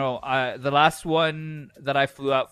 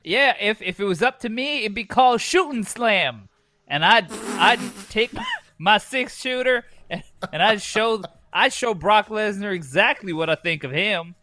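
redneck voice; 3 semitones higher than usual. Acted. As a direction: brag like a gun-toting cowboy. Redneck bit continues.

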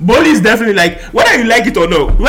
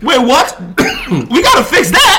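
1 mock shocked official; 5 semitones higher than usual. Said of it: "uefa has to be like".

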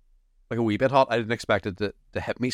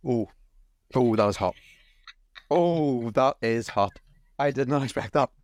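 gasping through a burning mouth from wasabi; reeling from a hot wasabi hit; mouth burning from spicy food. Real, not acted. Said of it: "My tongue is on fire".

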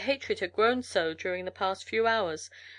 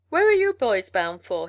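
calling out; 8 dB louder than usual. A narrator's reading. Mail carrier calls out greeting.

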